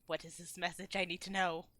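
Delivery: low, hushed, urgent; intense demand. Acted. Gilly pulls the guard close for the message, low intense demand. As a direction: press for an answer in a low, soft voice.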